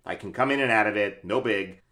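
easy, casual Brooklyn accent; standard Brooklyn accent. Shown as a demonstration. Actor demonstrating a transit-worker role, standard Brooklyn accent. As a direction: slip lightly into everyday Brooklyn. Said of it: "I have a standard Brooklyn that I can do".

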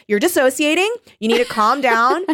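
high, pleading reaction to a character; playful high-pitched intervention; mock alarm. Retold alarmed reply to the character.

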